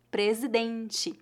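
"presidente" said very slowly and clearly, "dente" ending as "dentchi"; teacher drilling "presidente" three times, carefully; slow model word. Shown as a demonstration. Teacher to students learning Portuguese, slowly sounding out "presidente". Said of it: "Note que adicionamos a letra E ao final".

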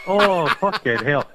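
loud, high, slow laughing exclamation; real laughing outburst; laughing shout. Real, not acted. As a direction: laugh it out in disbelief. Reacts to a guess naming a pop singer.

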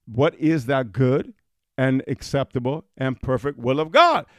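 slow, deliberate scripture reading. Shown as a demonstration. Preacher rereading the verse for emphasis, slowly. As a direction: read it again slowly, weighing each word. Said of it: "Let me read that again".

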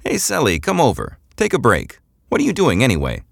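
high, carrying call across the room. A narrator's reading. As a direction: call him over the shoulder. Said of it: "called out over her shoulder".

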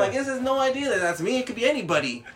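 high, loud, indignant protest; arguing angrily. Retold or imitated. Driver disputing the cop's radar number, arguing angrily. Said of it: "I was just fucking arguing with him".

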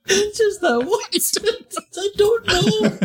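teasing imitation of a friend's old-lady voice; mock old smoker. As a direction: drag it out like a croaky old smoker. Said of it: "Why do I sound like an old smoker?".

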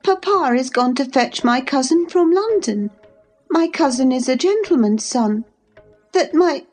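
high, distressed protest breaking off; upset young girl. A narrator's reading. Cathy protests to Ellen, near tears. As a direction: insist through rising tears.

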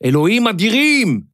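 high, exasperated exclamation; exasperated shout. A narrator's reading. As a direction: cry out in frustration to yourself. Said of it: "צעק משה לעצמו".

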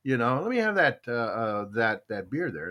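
ordering a stout, excited; eager request. Retold or imitated. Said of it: "So I go".

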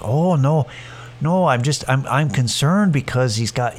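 lightly mocking Fargo accent; mild Upper Midwest accent; Fargo-style accent. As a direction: imitate a fretting dog owner in a Fargo accent. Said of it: "imagine them having an accent".

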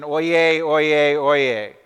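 loud, ringing herald cry; royal herald. Retold or imitated. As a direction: proclaim it like a court crier. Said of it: "how they start the Supreme Court session".

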